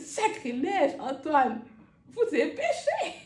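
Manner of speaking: plus fort et plus haut, moqueur; imite le prêcheur. Retold or imitated. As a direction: retourne le sermon contre lui. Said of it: "j'ai dit". (parodie légère du sermon d'Antoine)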